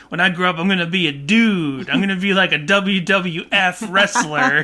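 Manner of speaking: put-on high, loud little kid dreaming big; childish eager voice; immature child voice. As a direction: play a wide-eyed kid who wants to be a wrestler. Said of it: "he's saying this in a very immature way".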